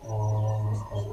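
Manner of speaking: ᱚᱦᱚ softly stretched on a level o; teacher softly sustaining the sounds of ᱚᱦᱚ; drawn-out letter sound. Shown as a demonstration. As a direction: draw out ᱚᱦᱚ slowly and softly, o then breathy h-o. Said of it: "ᱱᱚᱣᱟ ᱫᱚ ᱚᱦᱚ ᱵᱚ ᱩᱪᱪᱟᱨᱚᱱᱟ".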